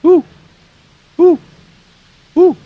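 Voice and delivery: short loud owl hoots; playful owl call. Shown as a demonstration. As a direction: hoot like an owl for kids. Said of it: "I see an owl".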